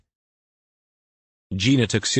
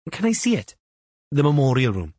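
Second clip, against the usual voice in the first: high tentative ask; 6 semitones higher than usual. A narrator's reading. Gina asks to see room.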